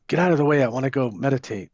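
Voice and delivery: quick, pushy mock complaint; huffing impatience. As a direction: rush it out, imitating a harried latecomer. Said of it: "I was huffing like".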